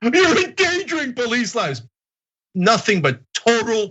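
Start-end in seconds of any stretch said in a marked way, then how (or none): 0.0-1.8 high, stretched-out mock wail; mock hysterical outcry. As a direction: parody an overwrought objection, gasping and wailing. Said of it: "they're gonna say".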